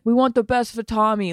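weak Boston accent, lightly put on; a faint Boston fan accent. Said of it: "in a better Boston accent than that".

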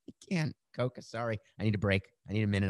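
breathless, gasping between words; catching breath after a long read. Real, not acted. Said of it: "I'm out of breath".

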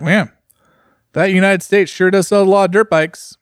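hammed-up English accent, pitched high. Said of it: "your English accent is uncanny".

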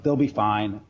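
ordinary talk, nothing marked

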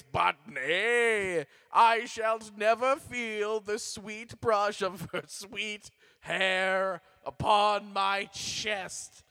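slow, lightly haunting ghost lament; a hint of a mournful ghost; ghostly voice. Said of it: "a ghostly tone to your voice".

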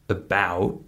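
"about" with a very short, unstressed "uh" first; reduced schwa. Shown as a demonstration. Teacher showing learners an example word, short schwa in "about". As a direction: say "about" with a quick schwa, then a long second syllable. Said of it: "that first syllable".

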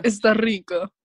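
lightly voiced fuckboy; a hint of a fuckboy come-on. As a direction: say it like a casual fuckboy. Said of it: "decirlo como de fuckboy".

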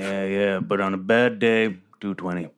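casual boasting about lifting; low gym bro. Acted. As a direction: Ranger chatting to the badger about bench press. Player voices Ranger.

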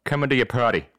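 cartoon dad impression; Peter Griffin. Player capping his party-crasher act, cartoon impression. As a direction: sign off in a goofy cartoon voice. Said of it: "in Peter Griffin accent".

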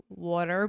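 "water" drawn out with the aw of dog; Jersey vowel. Shown as a demonstration. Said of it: "use the vowel that you, you say in dog".

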